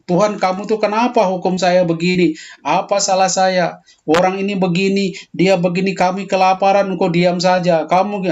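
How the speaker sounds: mock-confront God, voice up; angry lament to God. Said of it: "itu langsung dia sampaikan kepada Tuhan". (ratapan marah kepada Tuhan, nada naik)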